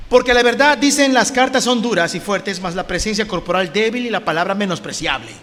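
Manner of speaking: declaimed Bible verse; scripture reading. Acted. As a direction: read the verse out to the congregation. Reads scripture aloud.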